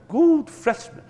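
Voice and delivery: loud, high cry of save me; a sinner shouting to God for help; cry for rescue. Acted. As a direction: call out as if drowning. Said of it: "rópar Gud".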